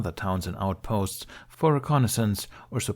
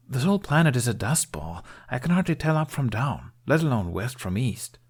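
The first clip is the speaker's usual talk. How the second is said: lightly voiced young soldier, higher, grumbling; a hint of a fed-up young private; 5 semitones higher than usual.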